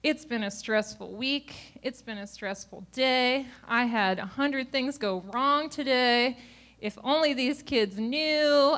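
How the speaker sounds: defensive excuses. Retold or imitated. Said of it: "downplaying my part".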